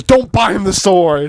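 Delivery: drawn-out mock warning; mildly heated, stretched-out command; retold heated order. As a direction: slowly imitate someone putting their foot down. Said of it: "She sounded pretty, pretty, uh, heated".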